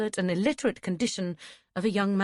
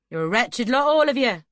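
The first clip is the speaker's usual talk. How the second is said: louder, raised angry shout after them; angry call; 6 semitones higher, 9 dB louder than usual. A narrator's reading. Stable master shouting after the fleeing boys. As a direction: yell it at their retreating backs. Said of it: "he called to their backs".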